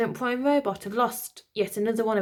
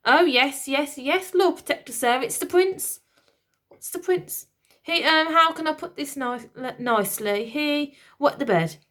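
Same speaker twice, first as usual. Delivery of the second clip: high, louder chirpy nanny; chirping old lady; 6 semitones higher, 3 dB louder than usual. Acted. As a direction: bluff it out brightly. Nervous nanny explains.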